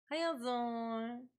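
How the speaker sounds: slow, stretched "How y'all doing" with a rise on "y'all"; lazy sing-song greeting; drawn-out greeting. Shown as a demonstration. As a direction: stretch it out like a Southern hello. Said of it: "repeated greeting, drawn out".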